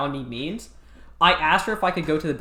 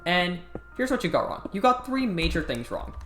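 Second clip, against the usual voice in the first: condescending teacher; 3 semitones higher than usual. Retold or imitated. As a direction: break bad marks like a patronising teacher. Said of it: "talks to everybody really condescendingly".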